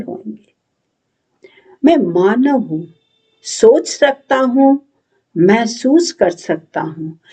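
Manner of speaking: measured declamation with lifted phrases and falling ends; lightly theatrical, resolute recitation with long pauses; dramatic monologue. Acted. Patriotic, thoughtful youth affirms his humanity, dramatic monologue.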